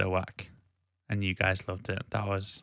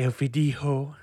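higher-pitched go at a Basque accent; attempted Basque accent; 5 semitones higher than usual. Shown as a demonstration. Podcaster re-enacting his old Basque accent attempt, comic accent. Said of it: "Basque accent".

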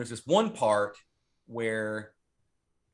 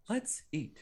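higher, softer mannequin voice; weird dubbed voice; 6 semitones higher, 7 dB quieter than usual. Retold or imitated. Mannequin comes to life at the dinner table, weird dubbed voice. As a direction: imitate an oddly dubbed mannequin, small and high. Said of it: "it's this weird, like, eighty-yard voice".

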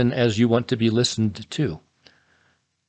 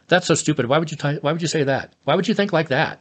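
mock scornful questions, a little higher; accusatory questioning; 5 semitones higher than usual. Shown as a demonstration. Husband demoing to his wife how an accusing question sounds, lightly scornful. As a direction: needle him with a hint of contempt. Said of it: "they don't wanna be accusatory questions".

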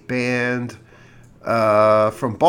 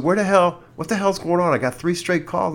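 angry complaint; 5 semitones higher than usual. Retold or imitated. Husband complaining to front desk about prank calls, angry. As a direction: let the irritation rise as you complain.

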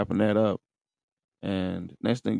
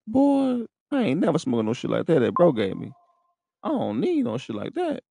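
mock self-scolding; 8 semitones higher than usual. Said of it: "I'm in this bitch like".

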